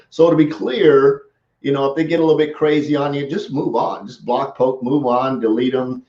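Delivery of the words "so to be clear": slow "So to be clear"; slow, deliberate. Shown as a demonstration. Coach naming a favorite phrase, slow and relished. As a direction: savour the phrase slowly. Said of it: "that's one of my favorite".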